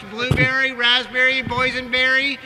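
put-on drunk captain announcement. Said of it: "The captain's been drinking".

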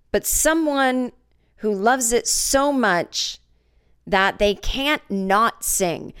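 slow, high grand declaration; milk every word of the speech; pompous scout. Retold or imitated.

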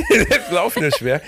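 laughing through the words. Real, not acted. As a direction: say it while cracking up. Repeats joke while laughing.

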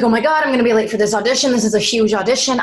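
fast, breathless panic; panicked rush. Retold or imitated. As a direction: blurt it out in a frantic hurry. Panicking before the audition.

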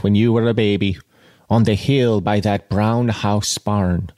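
measured audiobook reading; literary narration with pauses between phrases; story narration. A narrator's reading. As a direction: read the novel aloud with deliberate phrasing.

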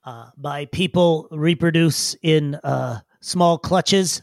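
slow, formal little creature; stiff, hesitant digger storyteller; halting digger. Acted. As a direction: recount your origins at a laborious pace. Game master plays Brillo.

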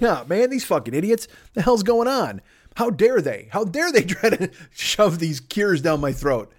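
mildly indignant griping; mock bitching. Comic wanting to gripe just like his listeners, bitching. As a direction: complain with a touch of put-on outrage. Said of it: "fucking bitch just like you do".

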